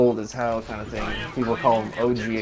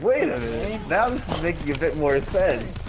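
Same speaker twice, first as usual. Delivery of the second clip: realization; 4 semitones higher than usual. Retold or imitated. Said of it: "I was like".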